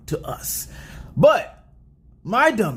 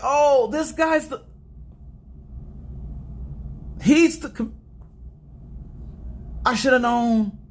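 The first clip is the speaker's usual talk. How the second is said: higher-pitched, re-enacted dawning realization; sudden realization; 4 semitones higher than usual. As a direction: replay kicking yourself for missing the obvious. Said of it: "I was like".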